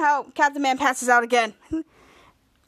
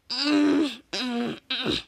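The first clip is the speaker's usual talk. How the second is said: straining; 2 semitones lower, 3 dB quieter, much slower than usual. Acted. Character straining to levitate anvil.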